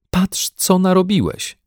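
slow, high scolding of husband. A narrator's reading. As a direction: scold him slowly. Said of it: "zbeształa męża pani Brown". (karcący ton)

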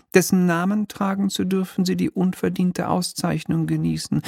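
high, mannered little devil voice; a smug minor demon, lightly shrill and polite; oily demon clerk. Acted. Demon's long official speech.

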